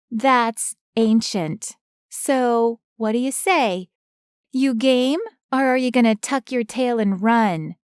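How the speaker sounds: put-on a cheeky girl daring him to play; young girl voice. Niece teasing, daring him.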